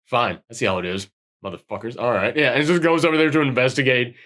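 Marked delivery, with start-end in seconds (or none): 0.1-2.3 low, muted grumble trailing away; grudging grumble. Retold or imitated. Reluctant man sent to investigate with the flashlight, grudging grumble. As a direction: resign yourself to it under your breath.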